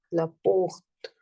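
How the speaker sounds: "la porte" repeated in a whisper. Shown as a demonstration. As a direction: whisper "la porte" back for the class. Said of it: "So here I'm using la".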